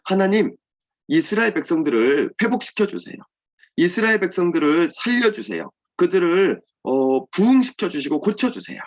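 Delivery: lightly acted, urgent supplication; earnest prayer. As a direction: act out a heartfelt plea. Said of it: "하나님께 간절히 기도했습니다".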